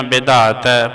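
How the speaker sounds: ਵਿਧਾਤੈ with a soft, light ending; soft pronunciation. Shown as a demonstration. Teacher showing students how to read ਵਿਧਾਤੈ, soft. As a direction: say ਵਿਧਾਤੈ gently, not pressed. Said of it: "ਪੋਲਾ ਪੜਨਾ ਵਿਧਾਤੈ".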